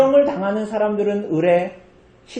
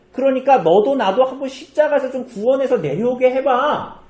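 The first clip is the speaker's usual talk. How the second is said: higher, scornful needling of a dying man; mocking jeer; 5 semitones higher than usual. Preacher voicing the robber jeering at Jesus, scornful taunt. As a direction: egg him on with contempt, voice pitched up. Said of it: "예수님을 조롱하고 모욕했어요".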